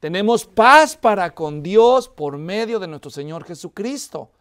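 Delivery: scripture reading. Acted. Reads the Bible verse aloud.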